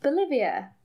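chart show announcer. Pretend. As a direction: lightly announce a countdown entry. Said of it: "I feel like I'm on".

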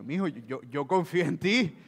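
gentle loving reassurance to husband; affectionate. Acted. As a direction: soothe him lovingly. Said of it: "se lo dice con cariño".

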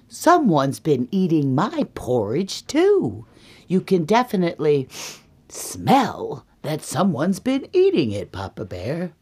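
emphatic, swooping complaint; indignant Mama Bear. Acted. Mama Bear tells Papa about her porridge, indignant. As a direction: swoop up on the key words, affronted. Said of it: "And then Mama Bear goes".

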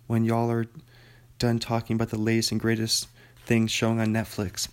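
bright, formal newscaster delivery; news anchor voice. Pretend. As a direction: read it like the evening news lead. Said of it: "I'll read it like a news anchor".

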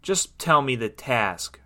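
mildly exasperated, slow; understated impatient sigh. Acted. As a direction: ask slowly with a touch of exasperation. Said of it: "Rita sighed".

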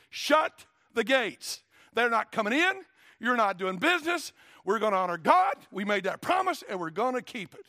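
loud, high, emphatic proclamation; preacher acting out a defiant leader's shout; commanding shout. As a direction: thunder it out as an order to the whole city. Preacher acts Nehemiah ordering gates shut.

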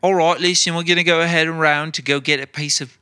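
put-on British accent, brisk chef giving orders; mock British celebrity-chef accent; Chef Ramsay. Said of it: "I'll do it like Chef Ramsay".

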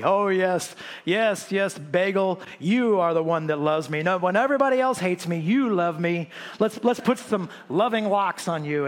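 lightly hammed-up crooning to a bagel; mock love talk to food. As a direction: tease the congregation by doting on a bagel like a lover. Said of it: "and we talk like that".

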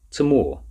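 name "Tamor" with the second syllable stressed and falling. A narrator's reading. Professor tells Rosa the dog's name, stressing the second syllable of "Tamor". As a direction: say "Tamor" leaning firmly on its last syllable. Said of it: "Emphasis on the second syllable".

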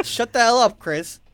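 loud, high outburst after a laugh; playful bellowed telling-off; mock angry shout. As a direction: shout him down, half in jest.

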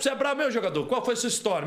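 a hint of a swaggering hustler calling someone out; mock street challenge. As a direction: size him up like a tough guy, teasing. Acting out the jogador challenge.

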